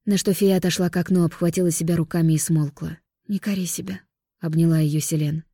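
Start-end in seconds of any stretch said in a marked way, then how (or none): 3.3-4.0 softer, tender consoling; gentle comfort. Acted. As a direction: soothe her quietly. Comforting guilty sister.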